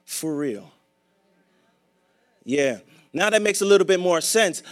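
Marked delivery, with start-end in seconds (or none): 0.0-0.7 earnest prayer. Pretend. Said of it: "It would be like saying".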